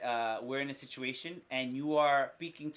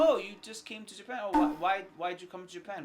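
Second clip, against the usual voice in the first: a bit higher, easygoing; lightly friendly curiosity; friendly chat question; 4 semitones higher, faster than usual. Shown as a demonstration. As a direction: ask warmly with interest. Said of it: "if you're having a conversation".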